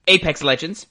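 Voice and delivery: burp mid-word; talking through a burp. Real, not acted. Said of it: "Excuse me, I'm burping".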